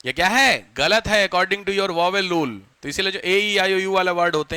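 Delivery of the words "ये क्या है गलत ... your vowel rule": mock exasperation. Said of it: "ऐसी दिल पे चोट लगेगी कि आपको शर्म आएगी".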